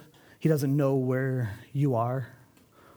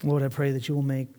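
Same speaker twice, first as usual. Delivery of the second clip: prayer. Real, not acted. Opens in prayer.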